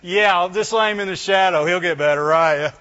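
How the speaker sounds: mock sceptic, sinking in pitch; scoffing world. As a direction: drag it out with sarcastic doubt. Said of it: "the world can look at you and say".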